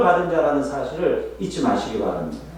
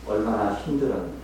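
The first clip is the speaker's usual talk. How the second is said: gentle sympathy; 3 semitones lower, 3 dB quieter than usual. Shown as a demonstration. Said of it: "저랑 한번 따라해 보실까요".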